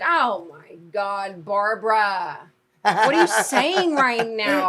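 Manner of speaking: slow, building to a loud yell; mock outrage. Family yelling at a Family Feud panelist, slow mock outrage. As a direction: drag it out, then blast the question. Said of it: "we're like".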